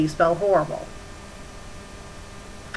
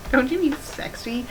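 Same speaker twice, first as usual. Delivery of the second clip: snarky higher aside; mocking correction; 5 semitones higher than usual. Real, not acted. Reader mocking the fanfic author's spelling, snarky. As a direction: sneer at the misspelling.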